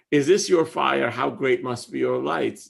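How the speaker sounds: calm rereading of the verse; gentle poem reading. Acted. Rereads the whole stanza.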